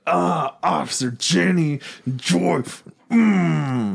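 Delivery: high lovestruck sigh on the names; swooning Brock. Retold or imitated. Mocking Brock to a friend, high swooning.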